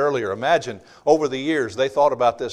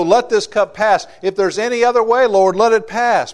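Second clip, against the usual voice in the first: anguished plea; 6 semitones higher, 6 dB louder than usual. Acted. Jesus pleads in Gethsemane.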